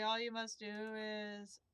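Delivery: slow, strained and coughing; coughing through it. Acted. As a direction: push the words out past a cough. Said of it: "spice stuck in my throat".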